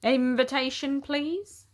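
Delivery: lightly voiced stiff doorman; the same formal demand; a hint of a weary doorman; doorman again. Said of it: "said the doorman again".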